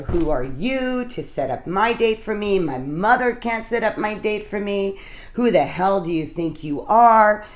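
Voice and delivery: indignant challenge, lifting on key words; mock how dare you, mildly heated; retold upset outburst. Newcomer challenging the woman over the date, retold indignation. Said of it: "I got really upset 'cause I said".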